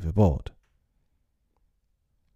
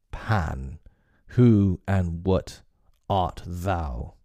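husky cry; much slower than usual. Acted. Hook, shaken, asks Peter what he is, huskily. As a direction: rasp out a fearful question. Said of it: "he cried huskily".

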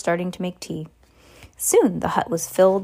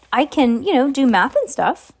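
put-on defensive boy; 6 semitones higher, 5 dB louder than usual. A narrator's reading. Harry defends himself.

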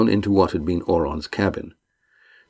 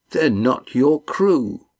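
bitterly; 7 semitones higher, much slower than usual. A narrator's reading. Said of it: "said Adramin bitterly".

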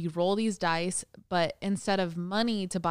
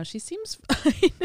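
laughing through the words, slowed; 10 semitones higher, 5 dB louder, slower than usual. Real, not acted. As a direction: let a laugh break the line. Laughs mid-sentence about the dog.

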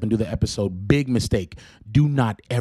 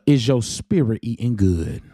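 slow Southern drawl on the question; Southern accent; slower than usual. Shown as a demonstration. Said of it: "with the Southern accent".

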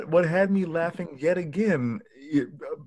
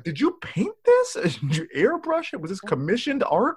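high-pitched, baffled interrogation; pitched-up mock bewilderment; mock incredulous questioning; 5 semitones higher than usual. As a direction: fire off questions in comic disbelief. Acted baffled questions about painting.

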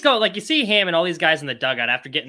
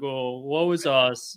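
mock self-pity; much slower than usual. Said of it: "they're always like".

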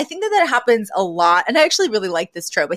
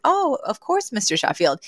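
delighted acceptance; 4 semitones higher than usual. Retold or imitated. Miss Fine accepting Mister Sheffield's dance, sweetly pleased.

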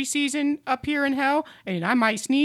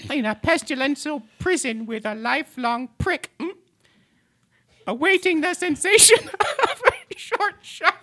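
measured tongue twister breaking into a giggle; vocal warm-up recitation; 3 semitones higher than usual. Acted. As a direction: recite with deliberate diction.

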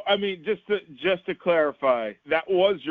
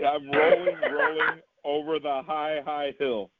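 poem recitation. Retold or imitated. Quoting the poem line once more.

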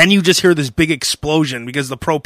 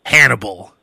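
breathy whisper, dramatic; whispered movie title; 5 semitones lower than usual. Pretend. Joking movie-poster tagline.

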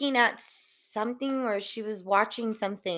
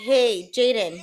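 calling a distracted child; 5 dB louder, slower than usual. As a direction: raise your voice to get her attention. Grandma calling the girl.

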